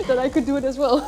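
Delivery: laughing through the words; giggling with surprise. Real, not acted. Surprised at lifting the weight.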